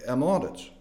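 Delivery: understated, low and unruffled confession; very calm. Retold or imitated. President calmly confesses to the diplomat, very calm. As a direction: say it quite calmly, pitched a little down. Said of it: "der Präsident sagt ganz ruhig".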